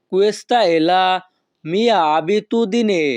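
Questa è la mia abitudine with mia abitudine very slow; slow Italian phrase. Shown as a demonstration. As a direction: model the phrase slowly for students. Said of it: "তখন আমাদেরকে বলতে হবে". (ধীরে Italian উচ্চারণ)

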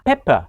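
PEPPER with a short, quick "eh"; short vowel pepper. Shown as a demonstration. Teacher showing students the word for pepper, short-vowel "pepper". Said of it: "คำว่าพริกไทยออกเสียงว่า".

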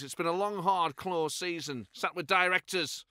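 mock-angry Clough grumble; getting angry. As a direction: grind it out with rising anger. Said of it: "he gets sort of angry as he goes".

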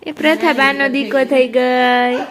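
slow, drawn-out teasing; teasing singsong. Real, not acted. Teasing children about grandma's favourite. (ચીડવતાં લંબાવીને બોલવું)

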